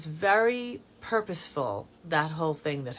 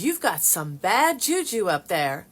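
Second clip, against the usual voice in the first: slow, louder imitated Texas accent; 2 semitones higher, 6 dB louder than usual. Texan cousin reporting bad juju upstairs, imitated Texas accent. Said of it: "she's saying it in her Texas accent".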